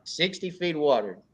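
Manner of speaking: "Sixty feet of water." repeated steady with a falling, matter-of-fact end; calmly insist, no doubt; flat confirmation. Retold or imitated. Club leader confirming his advice to the newcomer, matter-of-fact. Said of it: "I'm like".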